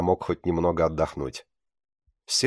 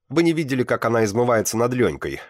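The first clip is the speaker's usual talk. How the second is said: much higher, louder indignant exclamation; exclaiming; 6 semitones higher, 3 dB louder than usual. Acted. Student jumps up to defend his friend, high and loud. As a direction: burst out in protest. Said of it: "воскликнул я".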